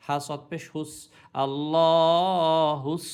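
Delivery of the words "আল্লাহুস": আল্লাহুস with a thick, heavy স, loud and slow; loud slow demo of আল্লাহুস with a heavy স. Shown as a demonstration. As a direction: sound the স in আল্লাহুস full and thick. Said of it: "সৎটা মোটা উচ্চারণ হবে".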